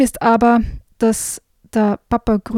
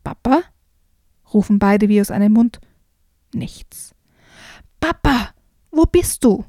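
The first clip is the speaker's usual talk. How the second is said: worried calling. Acted. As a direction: call for papa, getting scared. Kids anxiously calling.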